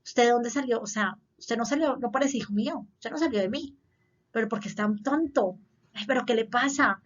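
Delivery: a hint of a scolding, belittling parent; mock the parent who insults the child; lightly voiced contemptuous parent; harsh parent quote. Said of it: "papás que lo que dicen es como".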